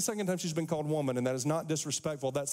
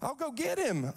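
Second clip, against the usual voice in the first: desperate plea; 6 semitones higher than usual. Acted. Mary pleading with gardener.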